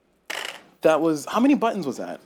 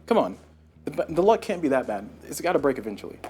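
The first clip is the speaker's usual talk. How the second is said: normal talking voice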